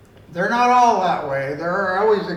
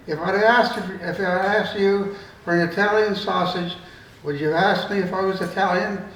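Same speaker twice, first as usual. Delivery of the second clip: indignant; 2 semitones higher than usual. Retold or imitated. Irishman to the shop assistant, mildly indignant. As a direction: play the offended customer, lightly. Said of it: "demanded the Irishman in-, indignantly".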